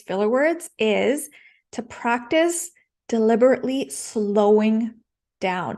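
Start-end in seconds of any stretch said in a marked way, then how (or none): 1.7-5.8 measured, with pauses between phrases; deliberately slowed. Shown as a demonstration. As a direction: spell it out deliberately, pausing before the last word. Drawing out advice to slow down.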